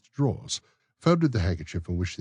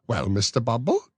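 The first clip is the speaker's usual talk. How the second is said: high, prim lady's voice; genteel matron; 6 semitones higher, 5 dB louder than usual. Acted. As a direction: play the coy matron. Matron prompts.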